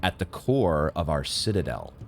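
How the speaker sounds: lightly voiced solemn choir of elders; solemn NPC reading. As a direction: intone it like an old oracle. Reads the NPC dialogue aloud.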